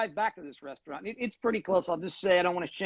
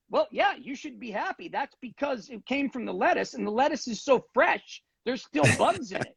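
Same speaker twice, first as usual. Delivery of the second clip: higher, mock-breezy Italian manager; mock smug manager; 5 semitones higher than usual. Manager shrugging off the bug in the salad, mock breezy. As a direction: brush off the complaint like it's nothing. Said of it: "he has the balls to say to me".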